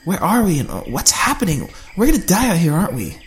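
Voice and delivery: high, tearful pleading; starting to cry. Acted. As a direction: close to tears, voice rising. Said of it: "she started to cry".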